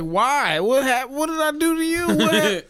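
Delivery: high, loud, pleading outburst; exasperated, voice shooting up; retold mad bewilderment. Player asking rude kid why, mad and bewildered. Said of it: "I was fucking mad".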